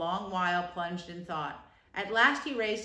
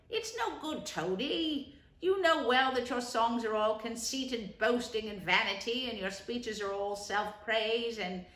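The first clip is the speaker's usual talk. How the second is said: gentle scolding; 2 semitones higher, slower than usual. Acted. Rat scolds Toad about his songs, regretful. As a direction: scold him as a sorry friend.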